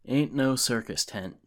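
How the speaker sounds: hammed-up wounded pride; sounding hurt. Jack correcting Sean about his tent, mock hurt protest. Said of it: "sounding hurt".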